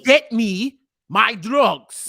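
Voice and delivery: loud, drawn-out mock Hispanic accent; bad Hispanic accent. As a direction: demand it slowly in a badly faked Hispanic accent. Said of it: "We are so bad with Hispanic accents".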